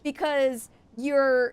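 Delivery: drawn-out mock-tearful protest; slow, lightly imitated crying complaint; retold crying. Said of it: "I just started crying".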